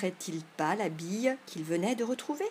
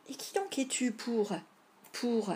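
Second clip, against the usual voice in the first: higher, halting, searching for words; forgetting the line; 3 semitones higher than usual. Acted. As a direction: falter as if the script has slipped away. Boy forgets his memorised line.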